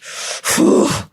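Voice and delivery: sharp forceful whoosh of breath; rush of rage. Retold or imitated. Speaker showing viewers how rage came up, sharp whooshing exhale. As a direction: blow out a high, unvoiced whoosh for anger surging up.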